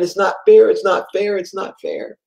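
mild mock-tearful child's plea; retold crying protest. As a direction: imitate an upset boy repeating himself. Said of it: "he starts crying".

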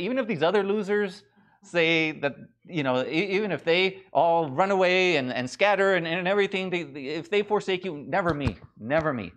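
a lightly voiced brash Peter bragging; boastful Peter. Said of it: "He said".

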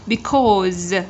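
"Because" with a held, buzzed final Z; Z ending sound. Shown as a demonstration. Teacher modelling ending sounds, buzzed final Z. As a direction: buzz the end of "Because". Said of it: "Z ending sound".

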